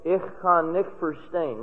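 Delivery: Ich kann nicht verstehen said clumsily, as if learning German; deliberately mispronounced German. Retold or imitated. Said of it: "We'd deliberately mispronounce it".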